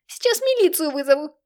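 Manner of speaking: high, loud shriek. A narrator's reading. Mother threatening to call police, high loud shriek. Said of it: "завизжала мать".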